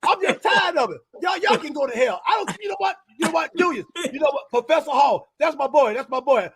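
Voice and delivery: lightly voiced fiery soul singer ranting; impression of a singer. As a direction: play a cranky old star who won't be told what to do, only lightly put on. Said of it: "singer impersonation".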